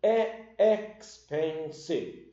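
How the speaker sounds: expensive said slowly, each syllable spelled out; teacher drawing out expensive; slow model word. Shown as a demonstration. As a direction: drag out "expensive" for students. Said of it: "Ou então".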